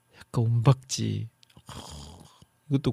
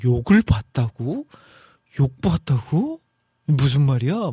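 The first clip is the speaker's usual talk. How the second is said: puzzled outsiders; 3 dB louder than usual. Retold or imitated. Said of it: "다른 지역에 사시는 분들은".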